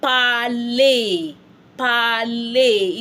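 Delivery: "Parler" as pa-lay, both syllables held; stretched syllables in "Parler"; French pronunciation example. Shown as a demonstration. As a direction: model "Parler" slowly with a long ay ending. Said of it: "For an example".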